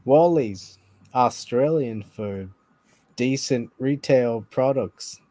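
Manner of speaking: attempted Australian accent, slow ad read; slow mock Australian slogan, accent slipping toward Welsh; a hint of an Australian-ish ad voice; mock Australian ad line. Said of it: "That's not even an Australian accent".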